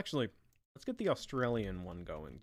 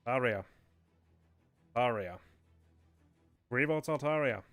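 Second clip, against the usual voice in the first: lightly put-on bad accent, announcing votes; a hint of a bad host accent, each name falling at the end; Darkrai. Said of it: "do the worst accent for a Darkrai".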